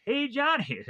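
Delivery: high-pitched mock call-out; imitated yell. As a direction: call out to a kid, without full volume. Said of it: "also is to be yelling for".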